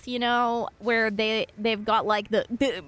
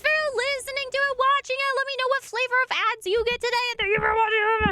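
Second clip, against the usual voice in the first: sing-song outro voice; 12 semitones higher, faster than usual. Acted. Outro in a high cutesy voice.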